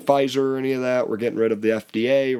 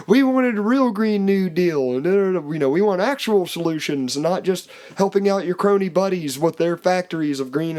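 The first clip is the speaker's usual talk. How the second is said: mocking protester voice; 6 semitones higher than usual. Mimicking protesters' demands.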